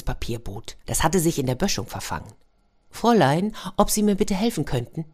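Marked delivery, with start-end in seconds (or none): 2.9-5.1 tin soldier. Acted. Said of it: "tin soldier voice".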